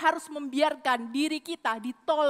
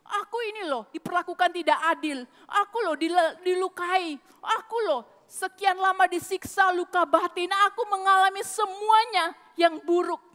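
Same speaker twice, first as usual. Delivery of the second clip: self-pitying whine; 2 semitones higher than usual. Retold or imitated. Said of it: "mentalitas mengasihani diri sendiri".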